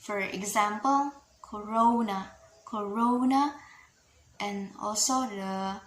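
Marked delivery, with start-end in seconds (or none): 1.4-3.5 "corona" with a lengthened RO; "corona" said as co-ROO-na, with a long O; long stressed syllable. Shown as a demonstration. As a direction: lean on the middle syllable of "corona". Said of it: "longer syllable".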